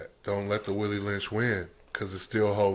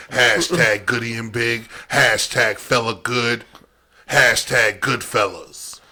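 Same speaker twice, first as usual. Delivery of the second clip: hype shout; 7 dB louder, slower than usual. Acted. Shouting sponsor hashtags.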